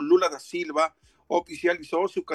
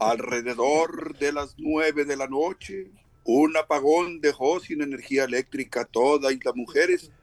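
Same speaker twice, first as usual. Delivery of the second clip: ghost voice. Pretend. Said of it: "voy a hacer voz de fantasma".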